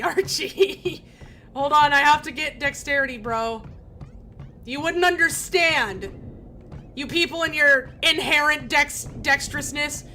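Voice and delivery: hammed-up huff; mock indignation. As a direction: protest like a snooty dinosaur. Mock frustration at Archie.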